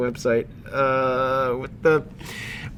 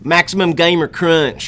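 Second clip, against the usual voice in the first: put-on slow, drawn-out Southern teen; Southern teen gamer; 4 semitones higher, slower than usual. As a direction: ham up a bratty Southern gamer kid. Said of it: "just like shitty Southern teen".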